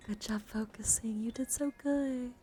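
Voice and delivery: cooing, drawn-out praise; mock praise. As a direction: praise it like a small child.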